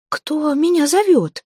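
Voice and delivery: high startled question, frightened; frightened, unsure. Acted. Zateya wakes to a voice in the dark, frightened and unsure. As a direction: wake up scared and unsure. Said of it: "раздался испуганный, неуверенный голос Затеи".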